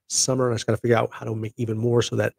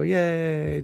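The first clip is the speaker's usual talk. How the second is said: higher little showing-off yay; mock excited yay; 6 semitones higher than usual. Shown as a demonstration. Showing viewers the balloon-trigger cheer, mock excited. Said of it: "if you get all excited and go".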